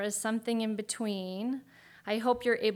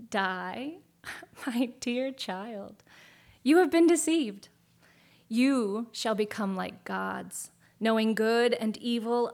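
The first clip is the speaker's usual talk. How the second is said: sly serpent voice; 4 dB louder than usual. Acted. Serpent tempting Eve in story.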